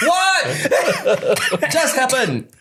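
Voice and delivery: high, drawn-out disbelief; hammed-up stunned question, very slow and high; acted bewilderment. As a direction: stretch it out in comic astonishment. Acted bewilderment after the call.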